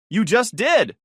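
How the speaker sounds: high, loud triumphant yell. Acted. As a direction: fling it back at him. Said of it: "she yelled".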